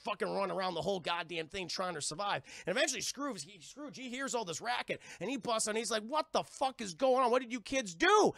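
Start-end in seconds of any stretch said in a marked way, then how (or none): 6.0-8.3 loud, high mock outrage; angry demand. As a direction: imitate an adult bursting in to scold. Scrooge bursts in on kids.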